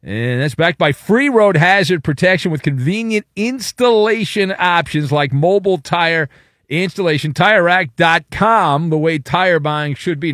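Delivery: smooth live commercial read; live radio ad read. Acted. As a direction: sell the sponsor in a steady read.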